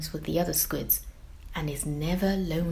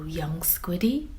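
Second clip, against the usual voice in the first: put-on old turtle whisper; slower than usual. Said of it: "says Missus T".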